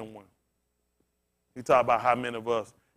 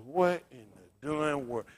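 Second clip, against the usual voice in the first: mild disbelief; slower than usual. Retold or imitated. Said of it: "I said".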